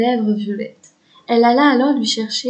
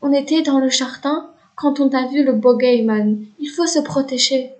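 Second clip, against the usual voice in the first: trembling anxious voice. Acted. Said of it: "d'une voix tremblotante et remplie d'angoisse".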